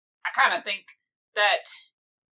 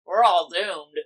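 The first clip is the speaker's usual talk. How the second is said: mock doom; 3 semitones lower than usual. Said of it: "I was kidding when I said we're all doomed".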